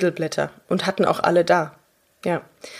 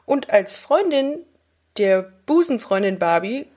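upbeat TV commercial announcer, pitched up; chipper 1950s ad; 3 semitones higher than usual. Pretend. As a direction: sell it like a cheesy toy ad. Mock Barbie TV ad pitch.

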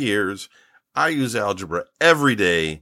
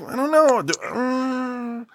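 mock clueless shrug; 13 semitones higher, much slower than usual. Mock clueless planner, voice shifted.

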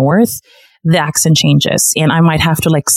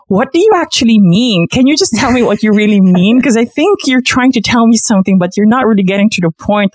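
raised, pressing, fed-up questioning; exasperated demand; 5 semitones higher than usual. Retold or imitated. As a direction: push them to get to the point, exasperated. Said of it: "And I'm just like".

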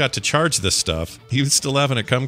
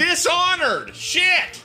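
relieved recall; much slower than usual. Real, not acted. Finally remembering title.

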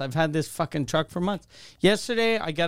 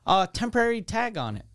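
indignant rant in a raised pitch; retold angry complaint; 7 semitones higher than usual. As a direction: pile up grievances against the salesman. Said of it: "I was so angry".

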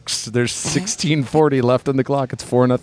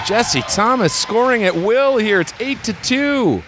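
excited; 8 semitones higher, slower than usual. Real, not acted. Play-by-play, team scoring.

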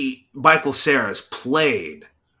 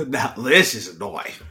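put-on Australian accent; 3 semitones lower than usual. Echoes the quote in Australian accent.

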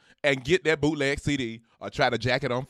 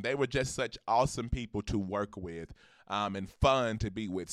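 taking it slower and more deliberate; slower, calmer restatement; slowed down; 3 semitones lower than usual. Real, not acted. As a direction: rein yourself in and say it carefully. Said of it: "Let me slow down".

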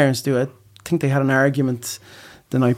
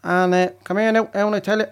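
higher, quicker Dublin uncle; Uncle Jimmy impression; 5 semitones higher than usual. Impressionist does his Uncle Jimmy for the hosts. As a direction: rattle it off like a chatty uncle. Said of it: "I'll do my Uncle Jimmy now".

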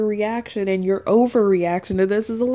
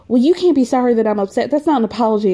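louder, imitating an outraged objection; retold heated argument, pushed louder; mock indignant; 5 dB louder, faster than usual. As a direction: act out someone protesting a non-apology. Acts out Sutton's angry objection.

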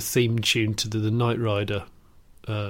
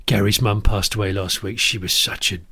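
mock mourning; 5 semitones lower than usual. Cockney mourns mate's late mum, mock-solemn grief. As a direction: gently lament with hammed-up reverence.

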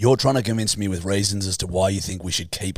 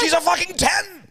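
posh English ghost. Acted. Posh English ghost raves about the wife. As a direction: shriek it in a lecherous ghost voice. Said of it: "posh English ghosts".

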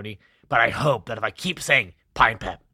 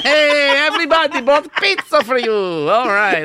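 high, loud cheering holler; rowdy celebration; 13 semitones higher, 8 dB louder, much slower than usual. Pretend. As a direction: holler it to the whole room like a party hero. Mock announcement of pizza arrival.

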